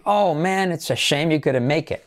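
expressive lament leaning on "Oh man"; regretful intonation. Shown as a demonstration. Teacher showing learners what to say instead, regretful intonation. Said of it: "Así sería la entonación".

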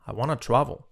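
WANT TO run together as "wanna"; quick linked speech. Shown as a demonstration. Teacher showing learners the quick form, linked pronunciation. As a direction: say "I wanna travel", linking WANT TO. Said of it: "Dicho rápido".

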